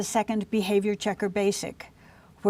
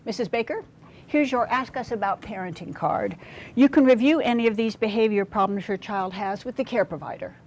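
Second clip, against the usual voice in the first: without we language. Shown as a demonstration. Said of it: "Listen to this example of not using we language".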